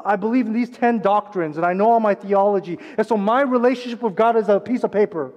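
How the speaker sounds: hammed-up self-satisfied churchgoer; mock smug evangelical voice; mocking smug believer. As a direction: parody their smug certainty. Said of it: "American evangelicals".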